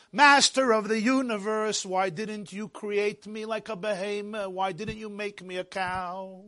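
slow, sinking mock lament; imitated tearful plea. Boy asks God why he wasn't made a cow, imitated tearful plea. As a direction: plead softly in a drawn-out singsong. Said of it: "he starts crying".

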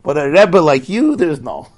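fervent praise. Acted. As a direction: savour each word in awe. Translating the coachman's praise.

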